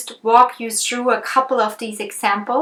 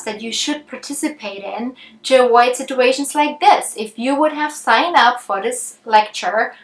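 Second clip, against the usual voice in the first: lecturing; 3 semitones higher, 4 dB louder than usual. Acted. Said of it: "Or I could lecture".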